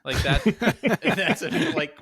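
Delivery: cracking up at own joke; laughing. Real, not acted. Laughing at own old-timer impression.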